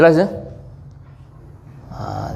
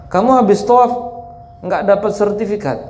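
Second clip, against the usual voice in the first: higher, fake-astonished question; mocking townsman; 5 semitones higher than usual. Meccan pranking the pilgrim, mock astonishment. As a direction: act amazed he missed out, pitched up.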